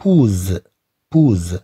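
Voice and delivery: بوز with a buzzing Z at the end; the misreading بوز, final consonant voiced as Z; S read as Z. Shown as a demonstration. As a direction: say بوز ending on a voiced Z, not S. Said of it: "وبالتالي غنطقوها".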